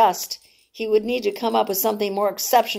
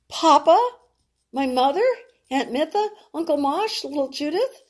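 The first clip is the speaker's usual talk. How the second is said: calling out; 7 semitones higher than usual. Acted. Rena calling out to family.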